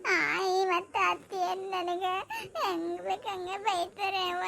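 slow, drawn-out tearful complaint; crying. Acted. Child tells mother that grandmother and aunt scold her, slow crying. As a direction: sob it out slowly to mother. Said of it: "ಯಾಕ ಅಳಕತ್ತಿ".

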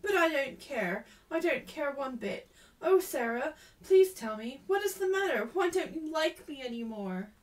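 high, loud, emotional appeal; upset pleading. A narrator's reading. Ermengarde asking lost friend Sarah what's wrong, pleading. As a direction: beg for an answer, pitch climbing.

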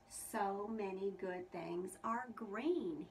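happy. Acted. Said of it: "he said happily".

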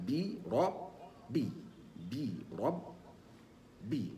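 بي رب with the final ب bounced; بي رب, the ب vibrating toward a light fatha; Qur'anic qalqala demo. Shown as a demonstration. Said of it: "ونقول هكذا". (نطق الباء مقلقلة)

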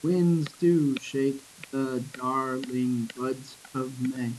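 slow, evenly separated syllables. Shown as a demonstration. Teacher counts the next line's syllables, slow and separated. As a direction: break the verse into single beats. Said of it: "Same thing with the next line".

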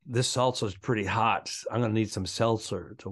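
"salsa" and "seltzer" kept clearly distinct; salsa and seltzer distinguished. Shown as a demonstration. Co-host demonstrates two similar words in a sentence, distinct pronunciation. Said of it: "say them in a sentence, and then let me hear the difference between each word".

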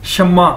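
"शम्मा" as shum-ma with a held m; model pronunciation. Shown as a demonstration. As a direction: demonstrate "शम्मा" in two syllables, shum-ma. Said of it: "इसको बोलेंगे कैसे".

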